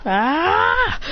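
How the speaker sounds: high, sharp yelp of alarm; startled cry. Acted. Naruto and Sasuke waking to yelling, startled cry. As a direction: jolt awake with a cry.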